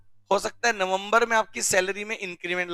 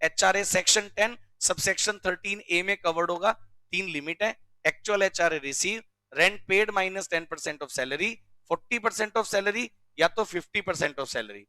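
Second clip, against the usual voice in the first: student reciting rule. Retold or imitated. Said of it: "आप बोलोगे".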